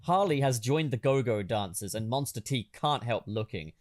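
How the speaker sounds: normal talking voice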